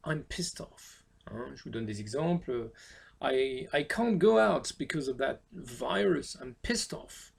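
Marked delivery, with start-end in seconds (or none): 3.2-7.3 annoyed. Shown as a demonstration. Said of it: "vous êtes très énervé quand vous dites ça".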